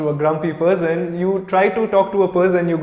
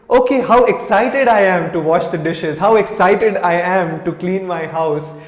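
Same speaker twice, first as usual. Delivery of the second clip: louder, playful mock excitement about chores; put-on enthusiasm; 5 dB louder than usual. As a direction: sell the chores with cheer.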